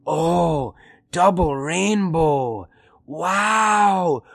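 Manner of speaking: put-on slow, dazed stereotypical Native American accent, drawn out; imitating a stoned Native American, dragging every word. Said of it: "it's like a stoned Native American".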